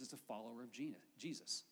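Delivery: talking through a mouthful of food; words round a bite of food; mouth full. Real, not acted. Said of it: "Still got some food in my mouth".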